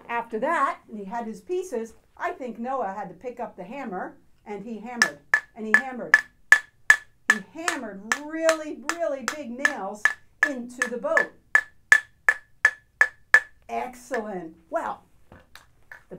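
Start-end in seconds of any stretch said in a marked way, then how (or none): 4.4-11.3 loud hammering emphasis. Acted. Acting out hammering.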